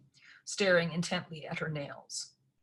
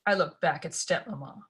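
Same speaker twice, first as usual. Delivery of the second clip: ordinary delivery, nothing marked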